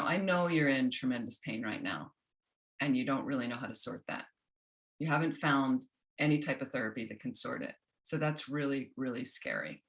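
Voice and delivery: a lightly voiced kind inner self speaking to you in your pain; compassionate inner voice. Shown as a demonstration. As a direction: comfort someone in pain, gently. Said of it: "But it's more like".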